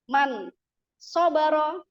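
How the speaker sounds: Man sobaro with a clear long o in so; careful Arabic pronunciation. Shown as a demonstration. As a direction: spell out sobaro syllable by syllable. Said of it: "Nggak bisa kita sebut man".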